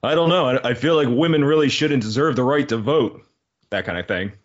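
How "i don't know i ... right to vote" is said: light Clark Gable voice with a hint of Philly; a conservative old-movie villain, mildly put on; faintly voiced Clark Gable villain musing; Clark Gable impression. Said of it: "my impression of Clark Gable".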